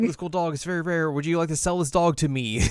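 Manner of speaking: high-pitched eager pitch to buy; excited gushing. Retold or imitated. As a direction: play an over-keen animal lover. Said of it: "I just got really excited".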